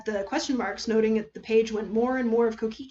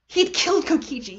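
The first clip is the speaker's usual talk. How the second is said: panic; 5 semitones higher than usual. Acted. Panic realisation.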